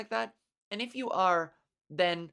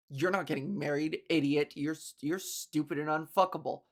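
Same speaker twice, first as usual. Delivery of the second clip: a lightly voiced mock gamer, a bit lower and sneering; toxic gamer taunt; 5 semitones lower than usual. Gamer mocking her in chat, a bit lower sneer. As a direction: imitate the sneering troll in chat, low and mocking.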